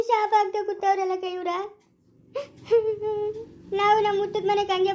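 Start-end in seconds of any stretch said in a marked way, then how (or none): 0.1-1.5 breaking into tears; a sob catching in the voice; crying. Acted. Wife crying to her sister-in-law about cursing sisters, tearful. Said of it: "ಯಾಕೆ ಅಳ್ತಾ ಇರೋದು ನೀನು?".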